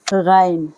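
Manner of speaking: गाइन said clearly, with a throaty gh start; गाइन, an Urdu letter name with a throaty start. Shown as a demonstration. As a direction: say गाइन with a guttural gh. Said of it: "गाइन को हम".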